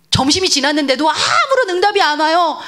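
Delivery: ordinary talk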